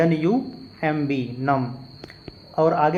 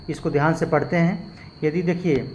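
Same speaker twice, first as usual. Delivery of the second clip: ordinary delivery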